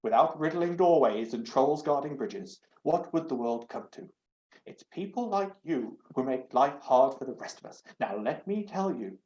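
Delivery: huffy, prim doorknob lecturing; loud, scandalised talking knob; indignant doorknob. Acted. Doorknob voice held, cross.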